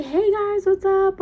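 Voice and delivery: high, loud tipsy singsong greeting; tipsy mom greeting. Retold or imitated. Tipsy mom greeting the kids, high and loud. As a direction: play the cheerful mom who's had a few drinks. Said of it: "my mom was drinking".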